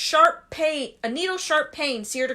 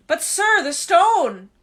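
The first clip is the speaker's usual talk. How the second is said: louder, higher urgent plea; urgent insistence; 5 semitones higher, 5 dB louder, slower than usual. Acted. Harry insisting to Dumbledore about the stone, urgent. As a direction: push back, still worried.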